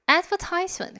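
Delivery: long "eye" sound in "advertisement", on TISE; American "advertisement", third syllable like "ties"; American pronunciation. Shown as a demonstration. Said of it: "발음 뭐라고요?".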